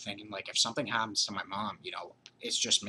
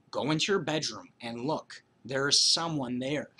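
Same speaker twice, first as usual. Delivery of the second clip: retold insistent call, raised and louder; urgent plea; 4 semitones higher, 3 dB louder than usual. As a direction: insist mom look in her bedroom. Kid insisting to mom.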